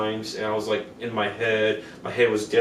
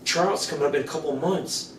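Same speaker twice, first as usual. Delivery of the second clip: higher-pitched, eager invitation; pitched up, coaxing enthusiasm; excited friend; 5 semitones higher, 3 dB quieter than usual. Retold or imitated. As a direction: imitate an excited friend recruiting someone. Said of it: "she got excited".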